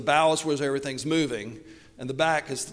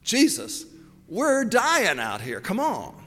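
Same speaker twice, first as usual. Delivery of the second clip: higher, pleading "Jesus, we're dying out here"; urgent plea; 5 semitones higher, 3 dB louder, slower than usual. Retold or imitated. Disciples waking Jesus in the storm, urgent plea. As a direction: beg the sleeping teacher to wake. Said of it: "You could wake Jesus up and say".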